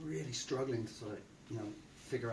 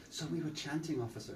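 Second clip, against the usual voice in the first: super polite; 4 semitones higher, 4 dB quieter than usual. Retold or imitated. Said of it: "You start to be this super polite person".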